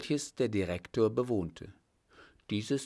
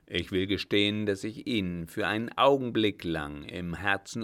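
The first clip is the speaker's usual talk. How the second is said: put-on an old captain's voice, louder and firmer than the narration; 4 dB louder than usual. The old captain to the startled director, louder and firm. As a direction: speak as the old master calming a frightened man.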